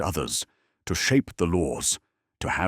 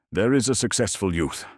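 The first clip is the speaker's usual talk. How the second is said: higher-pitched, impressed bystander; admiring onlooker; 6 semitones higher than usual. A narrator's reading. Bystander near the narrator praises a passing youth, admiring.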